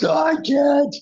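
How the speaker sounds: a trapped friend blurting no; stubborn refusal. Retold or imitated. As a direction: dig in and refuse.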